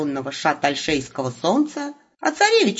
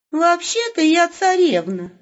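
high, slow, disdainful princess voice; scornful princess; 10 semitones higher, slower than usual. A narrator's reading. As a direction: look down on him from a height. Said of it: "презрительно фыркнула Елена".

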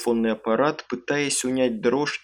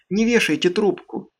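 higher, urgent plea; pleading; 7 semitones higher than usual. A narrator's reading. Аманда умоляет не бросать трубку, pleading. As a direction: beg them to stay on the line. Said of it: "взмолилась Аманда".

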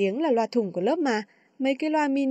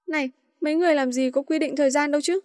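quick fake-angry scolding, lightly; mock scolding; 3 semitones higher, faster than usual. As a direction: pretend to scold, fast. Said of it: "giả bộ mắng mỏ".

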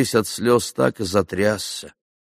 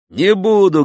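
elated; 11 semitones higher, 8 dB louder than usual. A narrator's reading. Elated hero refuses to shoot.

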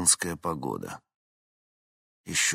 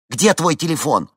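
loud, higher anxious ask; urgent question; 9 semitones higher, 10 dB louder than usual. A narrator's reading. Henni asks Vincent for his phone, urgent. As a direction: demand it quickly.

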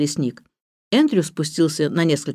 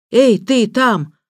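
loud, higher-pitched, drawn-out call; 6 semitones higher, 5 dB louder, much slower than usual. A narrator's reading. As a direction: hail someone far above. Calling up to someone unseen. (громкий протяжный оклик)

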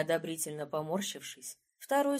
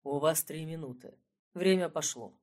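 icy tone; 4 semitones lower than usual. Acted. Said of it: "ледяным тоном добавил".

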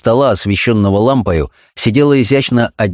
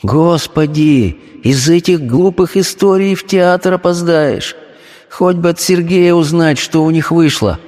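impatient wife's thought; 8 semitones higher than usual. Acted.

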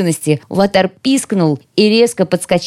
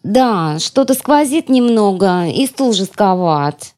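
whiny spoiled pouty drawl; 3 semitones higher, slower than usual. Acted. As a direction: pout like a spoiled girl. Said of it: "закапризничала я".

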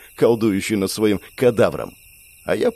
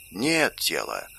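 whispered; 3 semitones lower, 8 dB quieter, slower than usual. A narrator's reading. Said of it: "прошептал он".

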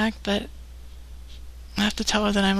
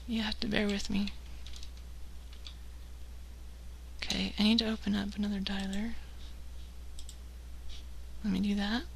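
slurred, sleepy, tipsy speech; 10 dB quieter, faster than usual. Real, not acted. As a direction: talk like you've had a few. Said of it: "tired, drunk, high".

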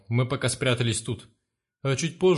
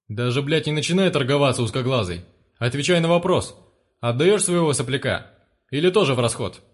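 louder, sneering gang leader; gloating thug boss; 4 dB louder than usual. Acted. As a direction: toy with him, then threaten. One-eyed presses the father.

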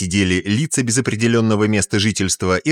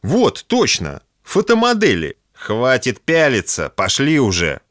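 put-on scolding old woman; 5 semitones higher than usual. Old wife scolding husband.

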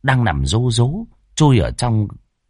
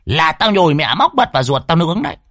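high, bossy witch-woman barking orders; high brash sorceress commanding; fierce old woman; 9 semitones higher than usual. Acted. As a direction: voice the hot-tempered sorceress, much higher. Lan's voice in story.

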